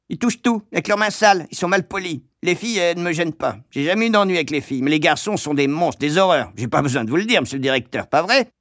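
high-pitched, quick-tempered shopkeeper; Madame Pratchett. A narrator's reading. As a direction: tell tales to the headmaster, high and hurried. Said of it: "poursuivit-elle". (mégère aiguë qui se plaint)

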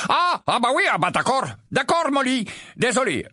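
put-on high, halting sleepy old rogue; sleepy grumble. Mondingus waking up at the table, groggy. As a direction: stumble awake, confused.

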